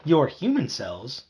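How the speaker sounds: slow, indignant outcry; indignant cry. Acted. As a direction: protest in outrage. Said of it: "I cried".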